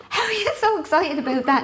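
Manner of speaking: high, incredulous question; retold bafflement. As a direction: re-enact a mum who cannot believe it. Mother baffled by son's excitement.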